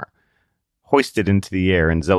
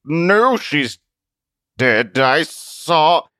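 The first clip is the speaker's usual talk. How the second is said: tearful; 7 semitones higher, 5 dB louder, much slower than usual. Acted. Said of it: "voice cracked and tears".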